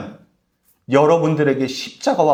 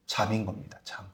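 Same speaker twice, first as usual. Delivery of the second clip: much softer, lower; hushed; 9 semitones lower, 15 dB quieter than usual. Real, not acted. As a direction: let it fall to a hush. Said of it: "sermon hush on sleep". (속삭이듯 잦아드는 목소리)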